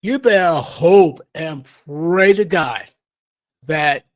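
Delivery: ominous warning. Real, not acted. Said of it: "I want you to think about this".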